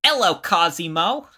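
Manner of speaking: mock posh English greeting; lightly done English gentleman; English accent. Cohost greets Cosimo as Englishman, mock English accent. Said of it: "Why you got this type of accent".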